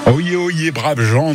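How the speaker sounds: high, ringing mock crier call; town crier. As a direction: call it out like a medieval herald. Radio host playing medieval crier.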